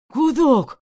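sudden high pained cry. A narrator's reading. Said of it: "вскрикнул Дронов".

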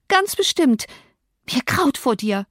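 high, biting reply; sharp retort. Acted. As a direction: snap it back up high. (hoch und schneidend)

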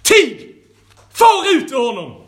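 loud, sharp rebuke; Jesus rebuking the unclean spirit, loud and stern; stern command. A narrator's reading. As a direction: bark the order to drive it out. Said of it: "Jesus sa strängt till anden".

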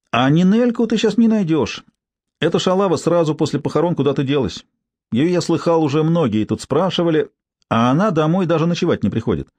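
a hint of a brassy street woman; coarse street woman. Tsypka gossiping.

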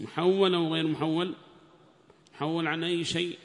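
usual speaking voice

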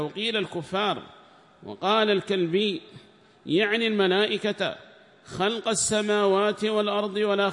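formal text reading. Acted. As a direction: declaim the commentary text like reading to a class.

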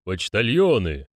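slow, solemn summons; measured ceremonial demand; demanding hollow voice. Acted. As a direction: call them to order slowly. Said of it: "требовательно спросил гулкий голос".

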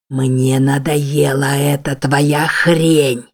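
slow, low snarl, spitting each word; very slow, menacing creature growl; monstrous snarl. Acted. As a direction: snarl it slowly in her face like a beast. Monster snarls in her face.

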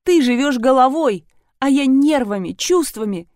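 weep out the words; mild weepy wail; sobbing. A narrator's reading. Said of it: "рыдала Великанова".

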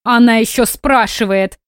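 indignant. Acted. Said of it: "всплеснула руками женщина".

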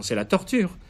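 put-on high, frightened old man's cry; trembling. A narrator's reading. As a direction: blurt it out in panic. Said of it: "le vieux patricien tremblant".

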